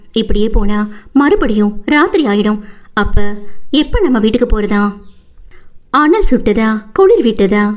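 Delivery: the wife blushing, flustered; lightly voiced shy young woman. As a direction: stammer a little out of shyness.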